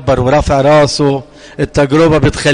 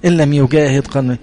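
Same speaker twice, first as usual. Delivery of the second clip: quick recap; 3 semitones lower, faster than usual. Shown as a demonstration. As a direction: rattle off the verse in one breath. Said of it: "لأنه بيقول".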